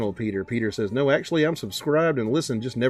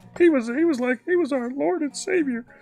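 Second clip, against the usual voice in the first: put-on fake crying voice, higher. Answering a chat request with a Jordan Peterson impression, crying. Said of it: "Do your best impression of Jordan Peterson crying".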